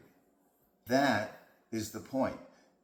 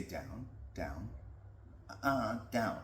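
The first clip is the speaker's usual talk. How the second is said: repeated nagging command; 6 dB quieter than usual. Retold or imitated. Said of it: "if you always say".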